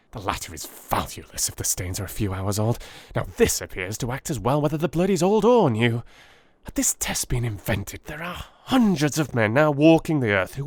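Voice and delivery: lightly voiced eager scientist; a hint of a keen young chemist; eager Holmes. Holmes explaining his new reagent, eagerly.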